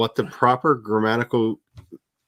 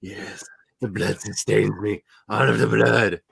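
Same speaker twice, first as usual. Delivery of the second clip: mock vampire cat. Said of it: "the other two are just like".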